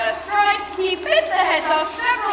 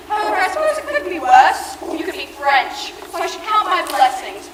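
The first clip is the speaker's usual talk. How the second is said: laughing. Acted. Snobbish jab at the French.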